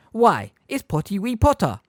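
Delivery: high, impish taunting voice; cackling poltergeist. A narrator's reading. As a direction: cackle the nickname at him. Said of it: "cackled Peeves".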